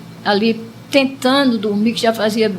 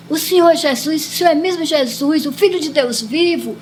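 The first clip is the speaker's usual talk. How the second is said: higher, insistent question, mildly emotional; retold tearful plea; 5 semitones higher than usual. Dreamer questions Jesus a third time, retold tearful plea. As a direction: retell a weeping plea without real sobs. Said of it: "chorando muito".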